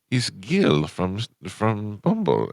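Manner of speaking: slow, drawn-out prank voice; slow creepy stranger. Retold or imitated. Posing as Gil from Bumble, slow and drawn-out. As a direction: stretch it out like a creep. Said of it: "And I go".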